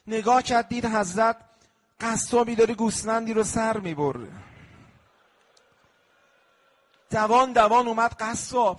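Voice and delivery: lamenting sermon storytelling; rawza narration. Acted. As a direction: tell the tale to draw tears.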